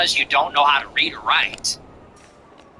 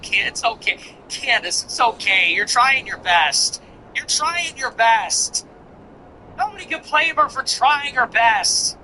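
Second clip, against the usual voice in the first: mock consoling; 6 semitones higher than usual. Mock-consoling Candace as a child.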